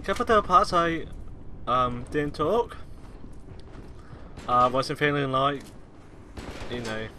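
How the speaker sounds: sore, hoarse throat; talking through a sore throat. Real, not acted. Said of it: "as you can tell".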